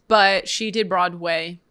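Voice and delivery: slow robot voice, words spaced out. Real, not acted. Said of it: "I sounded like a robot".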